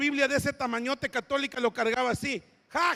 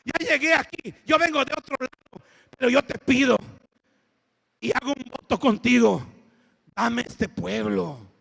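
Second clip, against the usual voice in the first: oración ferviente; 5 dB louder than usual. Retold or imitated. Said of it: "Yo me paré y dije".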